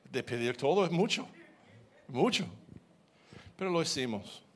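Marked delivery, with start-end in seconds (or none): 0.1-2.5 pleading. Retold or imitated. Pleading with God.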